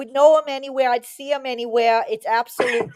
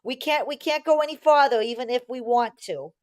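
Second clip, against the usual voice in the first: Gomer voice. Retold or imitated. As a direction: talk like a polite country boy turning down a cadet. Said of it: "he was doing it in a Gomer voice".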